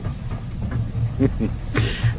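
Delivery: chuckle. Acted. Actor pleased with his present, soft chuckle. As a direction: chuckle quietly to yourself.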